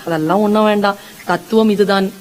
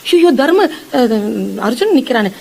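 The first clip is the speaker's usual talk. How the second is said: startled gasp, pitched up at the start; flustered panic. Retold or imitated. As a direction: blurt it out like a flustered elder who has just been caught. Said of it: "அவர் பதறாரு".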